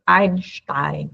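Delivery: Einstein with German SCH before t. Shown as a demonstration. Teacher giving the correct German Einstein. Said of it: "a gente sabe de como a gente lê".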